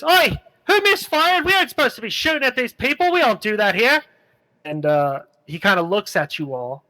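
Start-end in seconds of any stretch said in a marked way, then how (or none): 0.0-4.0 high Irish bandit scolding his own men; Irish accent, exasperated at the misfire; Irish outlaw telling off the crew for shooting. Acted. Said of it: "he sounds like the Irishman".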